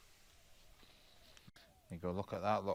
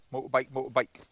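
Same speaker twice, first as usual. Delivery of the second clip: louder, higher excited call; 4 semitones higher, 8 dB louder than usual. Real, not acted. Showing viewers her bike, excited call. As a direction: sing out the word.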